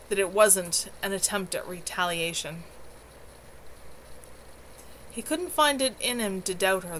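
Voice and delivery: steady read-aloud storytelling voice; story narration. A narrator's reading. Streamer reading her novel to chat, steady narration. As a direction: carry the listener through the chapter.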